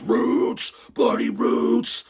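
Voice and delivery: high, drawn-out mock metal cry; mock sign-off shout. Streamer quoting how a questioner signs off, high mock cry. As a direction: wail it like a hammed-up metal refrain. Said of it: "He ends it off with".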